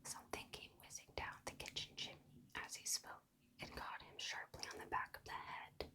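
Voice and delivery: plain reading voice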